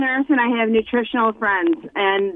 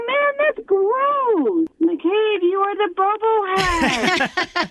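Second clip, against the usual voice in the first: laughing; 10 semitones higher, much slower than usual. Real, not acted. Caller laughing while scolding host.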